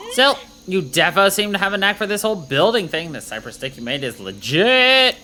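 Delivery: lightly voiced bubbly valley girl; a hint of a chirpy valley girl. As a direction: play the hyped valley girl soldier, like, totally. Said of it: "uh, valet voice".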